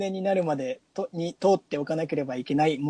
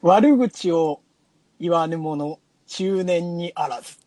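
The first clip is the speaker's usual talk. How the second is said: formal proclamation; 2 semitones lower, much slower than usual. Acted. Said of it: "announces his thesis formally".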